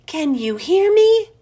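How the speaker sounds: squeaked out loud and high. A narrator's reading. Hamster straining to reach the frog, loud squeak. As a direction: call as loud as a hamster can. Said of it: "I squeaked as loudly as possible".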